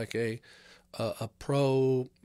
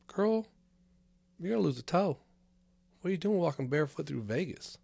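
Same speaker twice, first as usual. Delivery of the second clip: much higher, teasing warning to a stranger; mock scolding; 6 semitones higher than usual. Teasing barefoot girls in Vegas with a high mock scold. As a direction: pitch up and chide her playfully.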